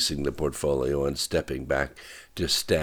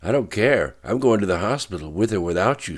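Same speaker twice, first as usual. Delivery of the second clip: loud, higher angry snap; snapped; 5 semitones higher, 7 dB louder than usual. A narrator's reading. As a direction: bite it off, furious and set. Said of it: "she snapped".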